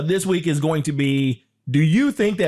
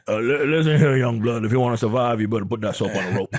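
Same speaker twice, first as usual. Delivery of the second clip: low drawl, lightly done; a hint of a grizzled old con; old southern prisoner; 4 semitones lower than usual. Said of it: "deeper and more southern drawl".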